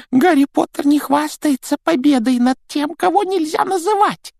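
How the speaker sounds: a small timid house elf; christmas elf. Acted. Домовик Добби говорит. (писклявый голос эльфа)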